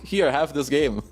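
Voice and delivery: mock offering, through a laugh. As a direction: hand it over laughing. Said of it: "you're like".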